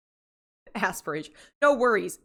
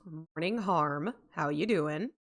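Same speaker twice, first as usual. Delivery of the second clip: mid-yawn greeting; 3 semitones lower, 5 dB quieter, slower than usual. Real, not acted. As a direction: say it through a yawn. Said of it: "I did a yawn and then".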